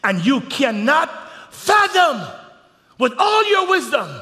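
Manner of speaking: loud, high preacher's shout; full-force preaching. Acted. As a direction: build the sermon to a roar. Preaching builds again.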